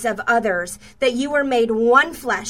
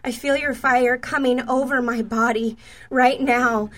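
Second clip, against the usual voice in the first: slow, hushed reading of a prophetic word; slow and deliberate prophetic read. Acted. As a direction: read it out slowly, as if the fire is falling now. Reads out a written prophetic word.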